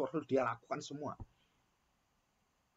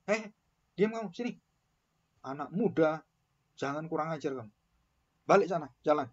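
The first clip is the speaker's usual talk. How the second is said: mock scolding; 3 dB louder than usual. Mimicking pastor scolding youth.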